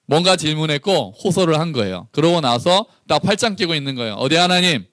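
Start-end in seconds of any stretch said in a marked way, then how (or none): 4.2-4.8 cheeky challenge. Retold or imitated. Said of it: "약간 이런 느낌이에요".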